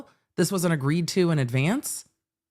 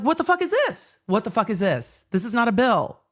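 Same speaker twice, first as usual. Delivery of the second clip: mock disbelief; 5 semitones higher than usual. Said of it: "you're like".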